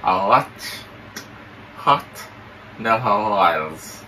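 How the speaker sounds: talking with mouth held open; words through a propped-open mouth. Pretend. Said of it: "you say you're not pronounce good".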